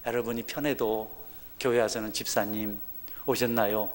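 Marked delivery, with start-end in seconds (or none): 2.1-3.9 soft, quiet, polite greeting; polite honorific greeting. Shown as a demonstration. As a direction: greet a church deacon gently and respectfully. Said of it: "이렇게 해야지".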